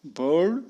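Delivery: बर्ड with no R before the d; British, no R. Shown as a demonstration. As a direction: drop the R in बर्ड. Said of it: "British वाले आर का pronunciation नहीं करते".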